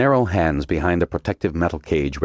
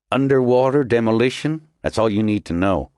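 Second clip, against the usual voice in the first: curt commander; 6 semitones higher than usual. A narrator's reading. Commander shuts Snow down.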